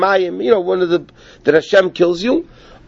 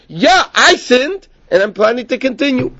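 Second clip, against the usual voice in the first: defiant admission; 7 semitones higher than usual. Retold or imitated. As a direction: imitate a sinner who plans to continue. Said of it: "Another guy says".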